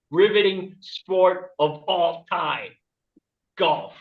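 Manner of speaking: slow, drawn-out announcer build-up; deliberate, weighty comic billing; mock-grand reveal. Real, not acted. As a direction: savour each word before the punchline.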